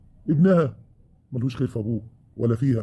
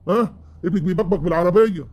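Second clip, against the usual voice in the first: angry complaint; 4 semitones higher than usual. Acted. Husband repeats the complaint.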